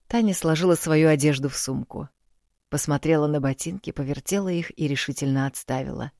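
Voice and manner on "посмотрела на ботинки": usual speaking voice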